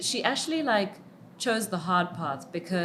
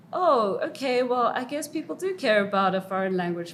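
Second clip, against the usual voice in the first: mock surprise; 8 semitones higher, 12 dB louder, faster than usual. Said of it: "So I was like".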